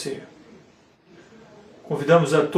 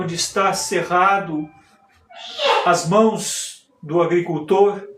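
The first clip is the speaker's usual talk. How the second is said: lightly declaimed stage monologue with measured pauses; theatrical monologue; 2 semitones higher than usual. Acted. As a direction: recite it like a poetic soliloquy, pausing between phrases.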